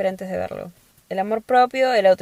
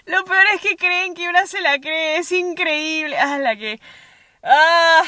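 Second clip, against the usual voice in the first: much higher, laughing disbelief; amused disbelief; 9 semitones higher, 3 dB louder than usual. Real, not acted. Host laughing at men faking voices, high amused disbelief. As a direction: marvel at how ridiculous they are. Incredulous rant after parody.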